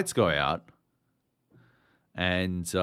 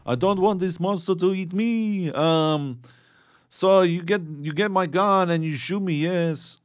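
higher mock French accent, slipping by the end; 10 semitones higher, 4 dB louder than usual. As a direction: do a hammed-up French soldier asking to be shot. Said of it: "I strayed from French accent at the end there".

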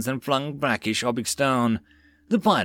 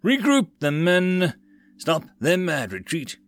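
higher-pitched commanding roar; roared order; 6 semitones higher than usual. A narrator's reading. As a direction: roar at the troops to turn back. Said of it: "Mole roared to his nearby troops".

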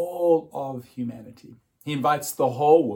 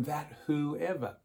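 slow, softer trailing off on whoever; soft trailing read; 3 semitones higher, 8 dB quieter, slower than usual. Shown as a demonstration. Preacher reading the verse to the congregation, slow and soft. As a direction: let the verse fade out gently. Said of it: "Here we get, again have this big universal focus".

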